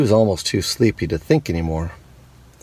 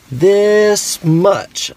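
much higher, louder little bunny exclaiming; excited little hare, pitched way up; 12 semitones higher, 6 dB louder than usual. Acted. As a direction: squeak it out like a tiny hare stretching wide. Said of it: "stretching out his arms".

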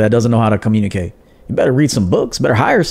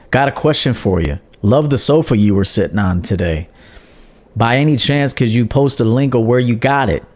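pleasant and respectful. Shown as a demonstration. Viewer asking a streamer for a link, respectfully. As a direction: politely put request. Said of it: "be pleasant and respectful and honorable".

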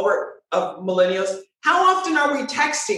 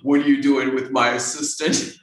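puzzled manager; 9 semitones lower than usual. Retold or imitated. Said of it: "many of them say to me".

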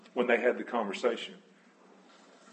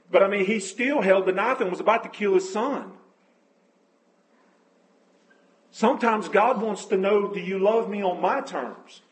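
higher-pitched, driven sermon delivery; impassioned preaching; 4 semitones higher, 5 dB louder than usual. Real, not acted. Preacher urging the congregation to love as God loves, impassioned. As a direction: preach it with rising conviction.

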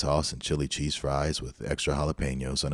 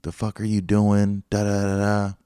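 high, loud mock scolding; imitated angry mom; 6 semitones higher, 5 dB louder than usual. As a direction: voice an irate mom going off, raised and louder. Mom going off, voiced in story.

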